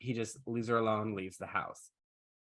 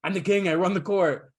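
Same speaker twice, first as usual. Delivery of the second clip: higher, louder hammed-up royal boast; mock arrogant king; 7 semitones higher, 7 dB louder than usual. Narrator playing the king brushing off Talia, hammed-up boast. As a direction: puff up like a spoiled king.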